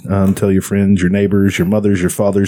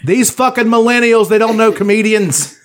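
mock outrage; 11 semitones higher than usual. Mock rant at millennials.

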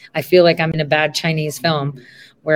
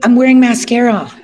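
alarmed; 6 semitones higher, 7 dB louder than usual. Real, not acted. Panicking about looking bad.

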